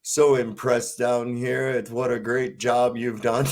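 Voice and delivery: slow, grovelling mock worship; mock prayer. Retelling the Life of Brian prayer, mock solemn. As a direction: flatter God slowly and solemnly. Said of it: "he's doing the prayer".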